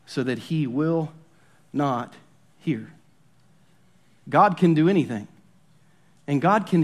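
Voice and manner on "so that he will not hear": slow, each word dropping lower and softer; the threat read slowly, fading to a soft, low end. Shown as a demonstration. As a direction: let "not hear" sink away to a hush. Reading the threat verse.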